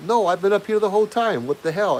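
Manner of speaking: high, loud shouted call across the yard; shouting from far off. Retold or imitated. Girlfriend yelling from the gate at him, high and loud.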